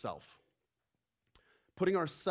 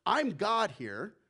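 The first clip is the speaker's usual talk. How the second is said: puffed-up bragging, louder; strutting boast; 3 semitones higher, 3 dB louder than usual. Retold or imitated. Empire brags about its power, strutting and boastful. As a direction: boast like a swaggering tyrant. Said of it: "empire goes around strutting its stuff and says".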